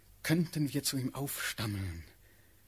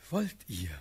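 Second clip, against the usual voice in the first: louder, insistent asking; urgent question; 4 dB louder than usual. Acted. Suitor pressing Natalie for her consent, urgent and louder.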